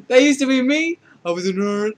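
high, very loud cry of revelation; shouted outburst. Acted. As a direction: shout it out all at once. Character bursts out about his past.

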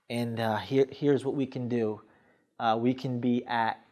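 quiet, unsure salesman trailing off; shaky, hesitant. Shown as a demonstration. Nervous salesperson offering the numbers, hesitant and soft. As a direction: let your nerves show, pausing and hedging. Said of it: "My voice is shaky".

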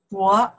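我 in third tone, dipping then rising. Shown as a demonstration. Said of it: "the third one".

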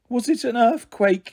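groaning. A narrator's reading. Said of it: "she groaned".

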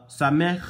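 Samech with a rasping hacking sound on the ch; guttural Samech. Shown as a demonstration. Showing his notes, he demos a hacking Samech. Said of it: "look how I pronounce it".

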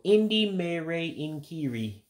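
slow, clear Indi Mere Inkiri for learners; said slowly. Shown as a demonstration. Teacher to learners, saying the word for cast slowly. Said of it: "we'll go slow with that one".

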